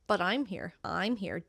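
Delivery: I'm emphasised in contrast; stress on I'm. Shown as a demonstration. Answering that Jack is absent, stress on I'm. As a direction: put the weight on I'm. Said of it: "think to do it vocally".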